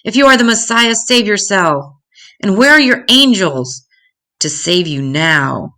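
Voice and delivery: a crowd member's staged scream at a prisoner; mock scream. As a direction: hurl the words as an accusation. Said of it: "others screamed".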